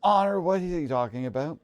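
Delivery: high, loud disbelief; incredulous demand. Acted. Bewildered companion confronts Honor, incredulous. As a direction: question her in sharp bewilderment.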